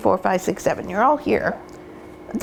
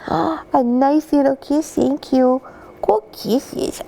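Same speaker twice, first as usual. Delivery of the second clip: puppy talk; 5 semitones higher, slower than usual. Real, not acted. Puppy gives kisses.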